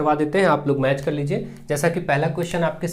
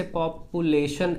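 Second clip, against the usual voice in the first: "पॉपुलेशन" broken into separate syllables; syllable breakdown; 3 dB quieter, much slower than usual. Shown as a demonstration. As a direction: say "पॉपुलेशन" in parts, with small gaps between syllables. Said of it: "break किया जा सकता है". ("पॉपुलेशन" को syllable में तोड़कर बोलना)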